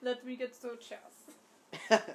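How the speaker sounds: slow, loud mock German accent; exaggerated, slow German accent. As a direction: draw it out in a hammed-up German accent. Accent game, takes a turn.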